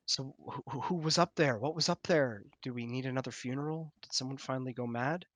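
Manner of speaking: hushed, hurried questions from a father; stammer, then fire off anxious questions softly; soft-spoken anxious dad; worried father. Acted. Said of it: "your father runs up and goes".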